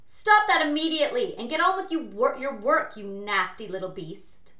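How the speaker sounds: loud, fast, high scolding; angry command, falling at the end; barked order. A narrator's reading. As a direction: bark it furiously as a cruel aunt. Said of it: "Aunt Sponge ordered".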